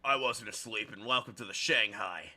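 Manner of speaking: gruff military waitress; stupid voice. Acted. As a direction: bark it like a drill sergeant. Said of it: "I love giving her this stupid voice".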